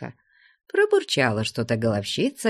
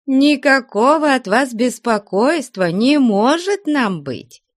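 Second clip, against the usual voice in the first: high, loud, gushing with a laughing catch; effusive welcome; 12 semitones higher, 6 dB louder than usual. Acted. Nun Taisia gushing to her honoured guest, high and loud. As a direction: pour out welcome, almost tearful with joy.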